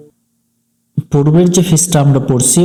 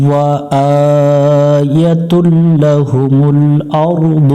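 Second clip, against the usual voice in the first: slow, drawn-out melodic chant; Quran recitation; much slower than usual. Shown as a demonstration. Teacher chanting the verse for students, slow tajweed recitation. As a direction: recite slowly, stretching each vowel.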